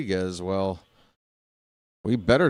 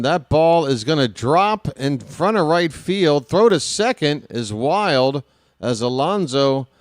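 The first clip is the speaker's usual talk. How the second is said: excited; 4 semitones higher than usual. Real, not acted. Exciting base hit call.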